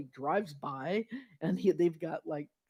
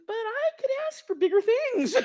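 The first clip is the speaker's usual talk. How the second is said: much higher, loud, laughing through it; 12 dB louder than usual. Retold or imitated. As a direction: laugh as you say it. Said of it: "He says".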